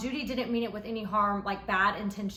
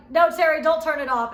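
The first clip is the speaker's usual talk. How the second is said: loud, high-pitched plea; retold shout; 5 semitones higher, 10 dB louder than usual. Begging cameraman Terry to keep filming, loud shout. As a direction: yell it at the cameraman, much higher and louder. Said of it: "And I was like".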